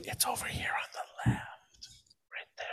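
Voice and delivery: whispered aside. Real, not acted. Host quietly pointing out the mirrored image, whispering. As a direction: drop to a whisper.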